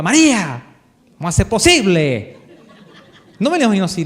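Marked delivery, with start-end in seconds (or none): 0.0-2.4 a mild mock scolding, a bit louder; half-hearted rebuke of her name; scolding Jesus. The preacher shows how Jesus did not speak to María: mild scolding. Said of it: "no me imagino a Jesús retándola".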